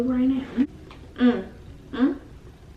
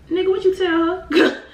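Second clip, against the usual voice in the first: demanding; 9 semitones higher, 3 dB louder than usual. Retold or imitated. Calling friend, demanding answer.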